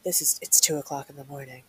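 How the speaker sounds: creepy voice. Pretend. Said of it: "And I'll do the creepy voice".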